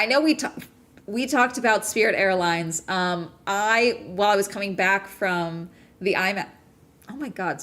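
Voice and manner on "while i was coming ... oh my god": talking through hiccups; words broken by hiccups; hiccuping. Real, not acted. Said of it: "sorry, I'm hiccuping a lot".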